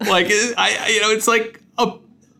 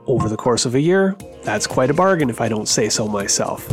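ad read. Acted. Host reads sponsor ad over music.

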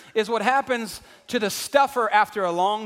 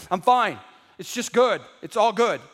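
stuffer's forced cheer; 4 dB louder than usual. Acted. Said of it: "You got the stuffer".

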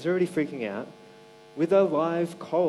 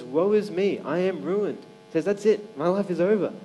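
mock panic; 3 semitones higher, 6 dB louder than usual. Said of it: "Isaiah freaks out".

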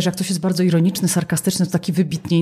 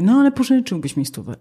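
higher, mock-insistent request; nagging plea; 5 semitones higher than usual. Borrower nagging for a hundred, insistent pleading. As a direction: push the same request once more. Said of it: "mamy zdartą płytę".

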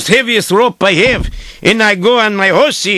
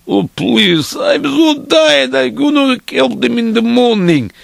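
weary pleading; 2 semitones higher than usual. Retold or imitated. Tired dreamer to the rabbi, weary pleading. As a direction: beg off with an acted tired moan.

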